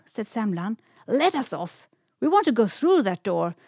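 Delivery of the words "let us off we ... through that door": joyful shout. A narrator's reading. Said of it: "shouted Semlan with a joy".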